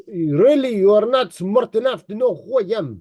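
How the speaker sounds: lightly mimicked Russian accent; put-on Russian accent; imitated Russian accent. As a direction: repeat his boast in a Russian accent. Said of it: "try to even say it in his accent".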